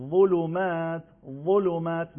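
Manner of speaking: "ظلمات" with a thick, full emphatic dh; dark, voluminous opening to "ظلمات"; heavy za. Shown as a demonstration.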